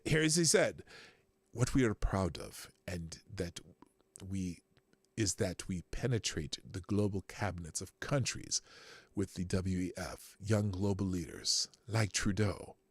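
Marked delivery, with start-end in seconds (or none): 1.5-12.8 put-on low, halting German accent. Host quoting Schwab on penetrating cabinets, German accent. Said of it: "my best German accent".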